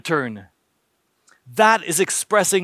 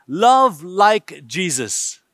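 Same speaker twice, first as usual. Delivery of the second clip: slow, weighty preaching emphasis; slow emphatic; much slower than usual. Real, not acted. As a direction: draw the phrase out solemnly. Preacher repeats his key phrase.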